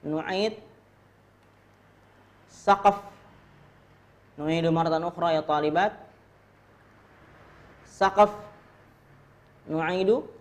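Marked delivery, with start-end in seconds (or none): 2.5-3.0 high, loud model word; drill call. Shown as a demonstration. Teacher modelling a word for students, loud drill call. 7.9-8.3 high, loud model word; drill call. Shown as a demonstration. Teacher modelling a word for students, loud drill call.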